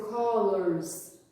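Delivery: "colors" with a curled R before the s; curled English R. Shown as a demonstration. Teacher modelling words for parents, curled R. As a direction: say "colors" with the tongue pulled back on the R. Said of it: "tem essa pronúncia enrolada".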